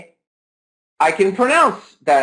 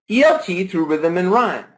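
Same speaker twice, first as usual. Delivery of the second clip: "E L T Through Rhythm and Rhyme" said with a clear beat on the stressed syllables; stress-timed beat. Shown as a demonstration. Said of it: "not intonation as much as it's stress".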